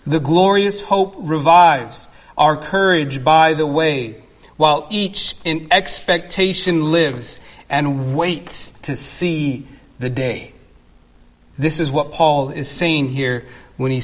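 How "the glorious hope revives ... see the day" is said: hymn recitation. Acted. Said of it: "John Fawcett captures this very thought".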